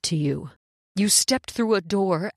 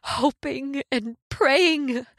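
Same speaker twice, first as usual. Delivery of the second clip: tearful pleading; 2 semitones higher than usual. Acted. Woman overcome, pleading.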